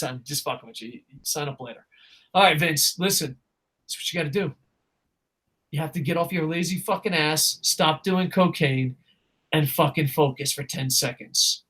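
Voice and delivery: hushed mock lecture to Vince; soft scolding. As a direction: talk him down quietly.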